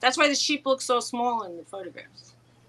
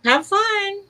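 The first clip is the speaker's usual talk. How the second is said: calling out; 11 semitones higher, 6 dB louder than usual. Real, not acted. Calling out to departing customer.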